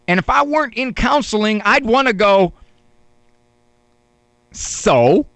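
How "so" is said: dismissive retort. Retold or imitated. Mock retort to spouse.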